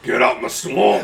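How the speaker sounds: lightly voiced ogre, drawn out; a slow, half-hearted ogre impression; Shrek. Host imagining Shrek as Hannibal Lecter, lightly voiced ogre. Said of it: "Shrek as Hannibal Lecter".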